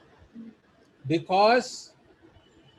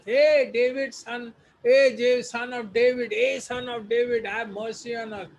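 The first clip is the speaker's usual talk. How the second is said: beggars shouting; 5 semitones higher than usual. Acted. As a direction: call out to Jesus at the top of your lungs, begging. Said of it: "shouting to Jesus".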